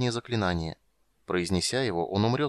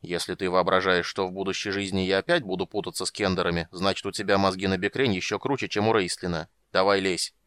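hoarse; 2 semitones lower than usual. Acted. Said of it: "хрипло сказал".

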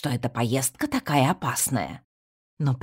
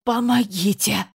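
louder, higher croaked call; desperate cry for help; 8 semitones higher, 5 dB louder than usual. A narrator's reading. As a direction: call out, short of air. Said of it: "прохрипел я". (отчаянный крик о помощи)

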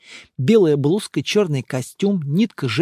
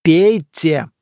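louder commanding order; 6 dB louder than usual. A narrator's reading. Monk ordering Emma to drink, commanding. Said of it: "приказал".

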